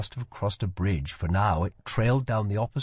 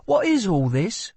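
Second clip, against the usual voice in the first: put-on higher, lighter girl's voice; a curious young woman asks; 11 semitones higher, 5 dB louder than usual. A narrator's reading. Lila asks.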